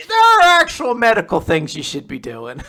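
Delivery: loud, high exasperated protest; mock scolding. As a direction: burst out with a hammed-up objection. Nurse's mock scolding through laughter.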